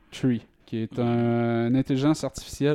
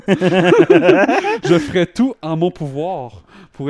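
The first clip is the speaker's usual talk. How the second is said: en riant; 5 semitones higher, 9 dB louder, much slower than usual. Real, not acted. Rit en lisant le texte.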